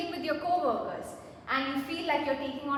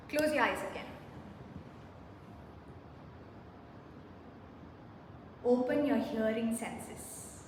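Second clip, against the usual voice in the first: soothing voice; 3 dB quieter than usual. Acted. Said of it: "do I have a soothing voice?".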